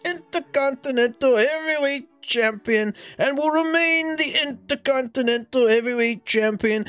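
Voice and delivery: lightly hammed wrestler hyping up his title match; Macho Man promo. In a lightly voiced wrestling promo, friend reading a famous Macho Man transcript. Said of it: "you will play Macho Man Randy Savage".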